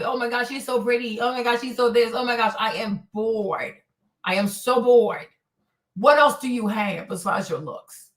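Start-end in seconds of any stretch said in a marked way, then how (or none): 0.0-5.3 bored mockery. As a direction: parody the gushing, then sag into boredom. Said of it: "I'm bored with".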